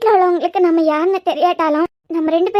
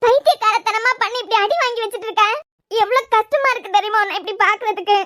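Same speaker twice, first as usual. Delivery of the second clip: higher, choked-up scolding through tears; tearful scolding; 4 semitones higher than usual. Acted. Woman scolding injured Guru, crying and upset. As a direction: scold him while fighting back tears. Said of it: "அழுறீங்களா?".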